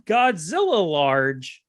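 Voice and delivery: put-on slow, hammy Japanese accent; mock Japanese accent, said slowly. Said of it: "says in his most, uh, Japanese accent".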